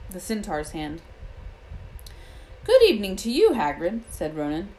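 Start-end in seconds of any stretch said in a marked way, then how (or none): 2.6-4.0 solemn centaur greeting, louder and higher; sorrowful centaur. A narrator's reading. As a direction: greet him with a touch of sorrow. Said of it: "He had a deep, sorrowful voice".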